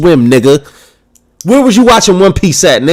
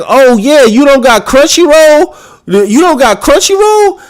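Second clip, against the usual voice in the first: higher, mocking know-it-all whine; mocking snob; 8 semitones higher than usual. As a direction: mimic a smug fan looking down on you. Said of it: "you ask a nigga who be like".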